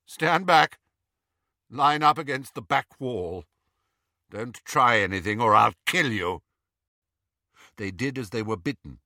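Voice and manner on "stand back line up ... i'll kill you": a hint of a scared boy's threat; lightly voiced Draco. Draco orders prisoners back, lightly voiced shaky threat. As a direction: bark orders nervously. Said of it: "Draco's shaking voice".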